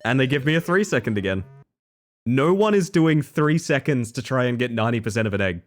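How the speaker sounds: ordinary talk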